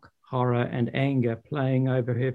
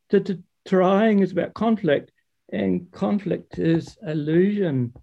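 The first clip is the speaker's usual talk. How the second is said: higher, stammering sage lecture; Father Frost lecturing; 4 semitones higher than usual. Acted. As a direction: preach it patiently, tripping on t's. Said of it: "as Father Frost continued to talk".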